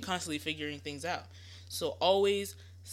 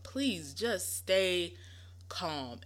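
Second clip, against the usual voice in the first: calm reassurance; much slower than usual. Shown as a demonstration. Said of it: "my next advice is to stay calm".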